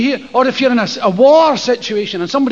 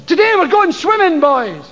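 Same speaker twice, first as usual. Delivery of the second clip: bright teacher announcement, a bit higher; cheery teacher; 4 semitones higher than usual. Retold or imitated. Teacher cheerily announcing a swim to the boys. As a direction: play the chirpy teacher calling the boys.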